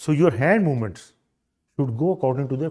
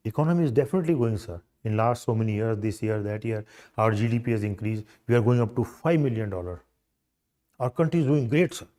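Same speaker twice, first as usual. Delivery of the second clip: measured enthusiasm, key words picked out; emphatic enthusiasm; 3 semitones lower than usual. Shown as a demonstration. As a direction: make the point with conviction. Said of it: "Emphasis. This shows, yes, you are enthusiastic".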